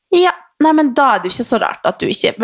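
imitating receptionist. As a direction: do the clerk realising the mix-up. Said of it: "hun bare". (etterligner resepsjonisten, lys og oppgitt)

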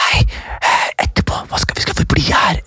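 hushed, hesitant aside; imitated whisper. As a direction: whisper to a seatmate during the show. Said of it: "at de kan hviske noe". (lav, nølende hvisking)

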